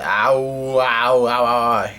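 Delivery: drawn-out, half-hearted ow-ing; acted pain cries. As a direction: mildly moan each ow as a long mock howl. Voices an injured character's pain.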